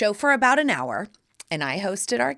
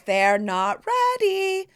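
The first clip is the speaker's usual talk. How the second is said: put-on sassy kid diva. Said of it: "the stop signs going".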